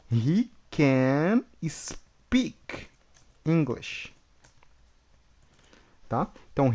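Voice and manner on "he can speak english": whispered, very slow, he can speak; slow whispered model. Shown as a demonstration. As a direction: breathe it out word by word. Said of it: "então vai ficar, ó".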